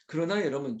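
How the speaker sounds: ordinary talk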